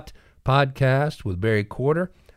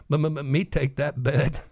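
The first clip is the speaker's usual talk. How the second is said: light stutter on the m; stammering; 5 semitones higher than usual. Retold or imitated. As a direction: stutter into the bet. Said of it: "he stammered".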